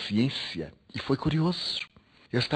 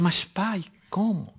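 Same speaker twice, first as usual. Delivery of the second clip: high, startled plea to father; surprised protest; 9 semitones higher, much slower than usual. Retold or imitated. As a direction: rise up in disbelief, almost pleading. Son protesting to dying father.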